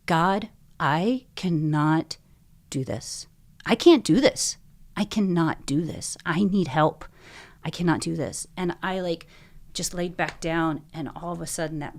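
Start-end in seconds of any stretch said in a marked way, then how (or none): 0.1-8.5 desperate plea. Retold or imitated. Pleading at night, shaking.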